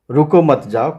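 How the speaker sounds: रुको मत जाओ run together without a break; no pause after रुको or मत in रुको मत जाओ; no comma pause. Shown as a demonstration. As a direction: say रुको मत जाओ as one unbroken phrase. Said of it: "कमा नहीं है इसमें".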